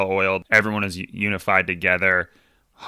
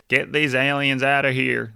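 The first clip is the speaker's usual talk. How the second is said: a hammed-up, half-hearted European accent; bad European accent; 5 semitones higher than usual. Mocking a racist character in a poor European accent. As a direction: fake a European accent badly, for a laugh. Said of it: "that was my, uh, European accent".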